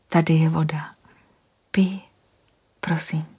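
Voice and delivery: gentle whisper to calm him; soothing whisper. Acted. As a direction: whisper reassurance, unhurried. Anastasia offers water.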